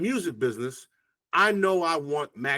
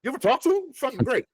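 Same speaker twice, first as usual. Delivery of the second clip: put-on high, gushing voices of girls praising him; 9 semitones higher, faster than usual. Girls telling the other girl about him: high, gushing praise. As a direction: gush about him, much higher. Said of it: "And they're like".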